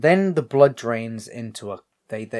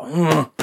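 higher, louder mock growl of frustration; imitated annoyed grunt; 6 semitones higher, 6 dB louder than usual. Leatherface given the wrong answer, annoyed grunt. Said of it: "he gets annoyed".

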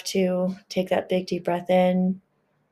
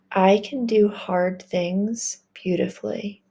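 whispered affirmation. Shown as a demonstration. Leading the listener in an affirmation, slow whisper. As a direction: whisper "I can do hard things beautifully" slowly. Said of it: "Say it with me".

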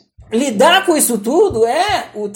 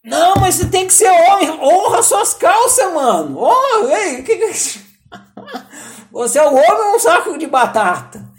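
much higher, louder, laughing jeer; mocking pep talk; 9 semitones higher, 5 dB louder than usual. To himself, an inner voice taunting his cowardice: high laughing jeer. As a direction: taunt yourself through laughter.

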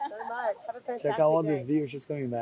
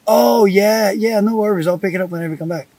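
higher-pitched, airy nonchalance; retold breezy reply; 6 semitones higher than usual. Man replying to text about the ring, put-on breezy nonchalance. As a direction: brush it off, trailing into a quick finish. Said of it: "I'm like".

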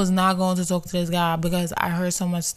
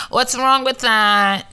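louder, slower sassy question; sassy challenge; 4 semitones higher, 4 dB louder, slower than usual. Real, not acted. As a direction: throw it back at them, daring. Repeated louder, slower, higher.

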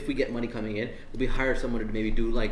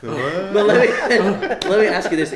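laughing; 7 semitones higher, 8 dB louder, slower than usual. Real, not acted. Host laughing while asking.

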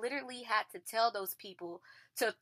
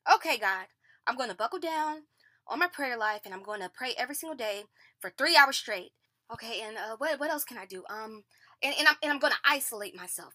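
quick, louder self-bargaining prayer; frantic bargaining; 3 dB louder, faster than usual. Retold or imitated. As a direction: rattle off promises to God in a rush. Herself bargaining with God.

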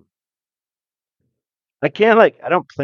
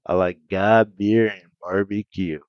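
lower, slowed Southern drawl; Southern accent; 4 semitones lower than usual. Pretend. Riffing on Southern clichés, light slow Southern accent. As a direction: lay on the Texas twang gently. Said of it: "talking real slow".

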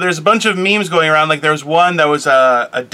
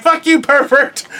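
slow, higher, laughing through a playful insult; laughing mock insult; 8 semitones higher, slower than usual. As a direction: tease her while you laugh. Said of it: "I'm like".

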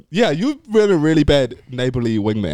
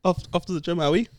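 high, sweet puppy voice; 6 semitones higher than usual. Acted. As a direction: coo it like greeting a puppy. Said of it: "Why are you using your puppy voice?".

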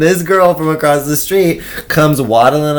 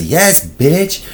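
higher, drawn-out sass; sassy retort; 5 semitones higher than usual. Retold or imitated. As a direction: say it with attitude. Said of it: "then she goes".

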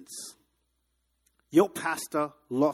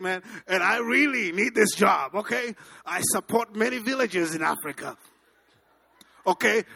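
pleading; 2 semitones higher, 3 dB louder than usual. Retold or imitated. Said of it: "I begged".

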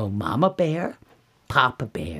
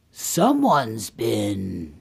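slow, heavy accusation; suspicious Papa Bear; 3 semitones lower, much slower than usual. Acted. Papa Bear finds his chair used, slow suspicion. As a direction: drag out each word ominously.

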